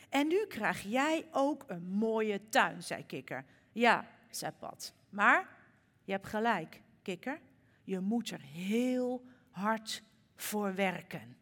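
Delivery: lively storybook reading with voiced characters; gentle storyteller voice; reading to children. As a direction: read it like a bedtime story for little ones. Reads children's story in sermon.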